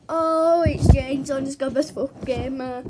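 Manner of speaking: talking while spinning around in a chair; spinning in office chair. Real, not acted. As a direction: voice swaying as the chair spins. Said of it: "Spinning around my chair".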